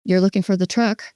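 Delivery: sincere, matching rephrase; genuine. Shown as a demonstration. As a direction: reflect it back sincerely, without mocking. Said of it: "Just be genuine".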